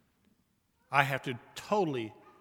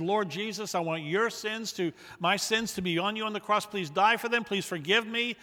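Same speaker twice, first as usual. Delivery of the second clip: earnest prayer; 5 semitones higher, 4 dB louder than usual. Acted. Voices a prayer of repentance.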